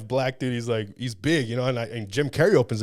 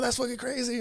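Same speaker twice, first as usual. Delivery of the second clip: high, laughing disbelief; laughing amazement. Retold or imitated. Telling the podcast host his amazement, laughing. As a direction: say it through a laugh.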